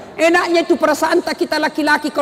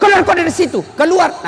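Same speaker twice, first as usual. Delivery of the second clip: higher, sharper acted order to get out; mock angry order; 5 semitones higher than usual. Lecturer throwing a student out, mock angry. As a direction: bark him out of the room, lightly. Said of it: "Akhirnya apa?".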